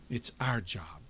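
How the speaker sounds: hushed, breathy whisper of the key line. Shown as a demonstration. Preacher to congregation, repeating the call, whispered. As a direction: lean in and whisper it like a secret.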